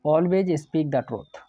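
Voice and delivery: very slow, each word set apart, the corrected sentence; slow dictation. Shown as a demonstration. Teacher gives the corrected sentence to his class, very slowly. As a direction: read the fixed sentence slowly so students can copy it. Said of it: "complete sentence ही होता है".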